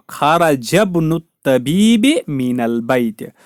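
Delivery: "खाराजबनु" slowly joined, jim running straight into ba; linked reading. Shown as a demonstration. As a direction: read "खाराजबनु तबीब" slowly as one linked phrase, alif dropped. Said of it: "जीम को बा के साथ मिलाएंगे, एलिफ को नहीं पढ़ेंगे".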